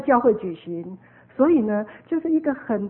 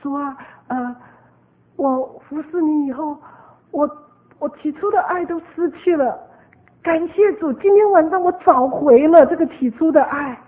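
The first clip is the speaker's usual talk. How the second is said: higher voice, halting then building louder; retold pastor's prayer; 5 semitones higher, 6 dB louder than usual. Pastor confessing lost first love to the Lord, retold prayer. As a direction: imitate a heartfelt prayer, pausing, then rising to thanks. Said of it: "他们的牧师就祷告说".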